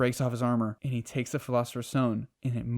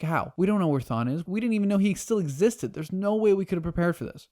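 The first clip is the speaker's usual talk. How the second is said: higher, louder, rushed alarm; panicked friend; 7 semitones higher, 4 dB louder than usual. Retold or imitated. Sisko warning Barry not to chase him, panicky and high. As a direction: plead in rising panic. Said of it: "He's like".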